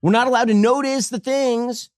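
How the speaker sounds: slow, high, dramatic host voice; ominous mock newscaster; conspiracy host voice.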